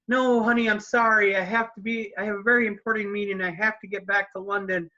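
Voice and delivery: a hint of a busy father letting her down; apologetic dad. Father tells daughter he must leave, mild apologetic voice.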